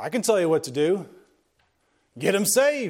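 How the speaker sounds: put-on big, booming, very clear West Virginia accent. Retelling what a man said when he stood up, in a booming West Virginia voice. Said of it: "big, booming West Virginia voice said very clearly".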